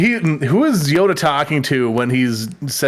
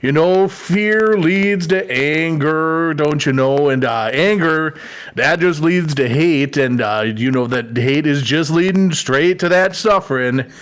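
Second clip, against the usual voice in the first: put-on slow folksy Minnesota accent; slower than usual. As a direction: Yoda lines in a Minnesota accent. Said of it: "so good in a Minnesota accent".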